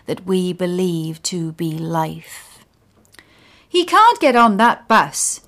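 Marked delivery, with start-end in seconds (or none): 3.7-5.4 louder, higher, firm pronouncement with stress on can't; loud authoritative declaration. Acted. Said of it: "declares a loud female voice with an indigenous accent and great authority".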